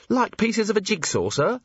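high, hesitant question; tentative venture. A narrator's reading. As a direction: venture it timidly to a superior. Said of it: "Cheery ventured".

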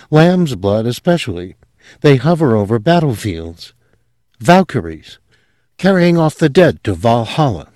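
lightly voiced young woman, high and earnest; confessing her strange family with rising fervour; a hint of a girl gone dreamy. Sylvia voiced in story.

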